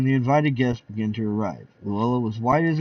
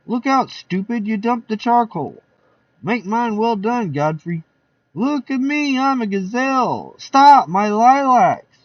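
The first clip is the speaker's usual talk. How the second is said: high, lively guest voices; party guests; 8 semitones higher, 5 dB louder than usual. Acted. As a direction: chatter like a rowdy party guest.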